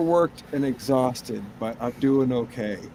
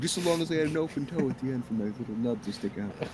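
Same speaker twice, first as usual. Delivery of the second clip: mock buddy voice; 6 semitones higher, faster than usual. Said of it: "He's like".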